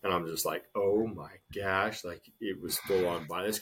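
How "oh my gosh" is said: slow, drawn-out awe; stunned disbelief, slow; slow stunned oh my gosh. Retold or imitated. Watching the fight.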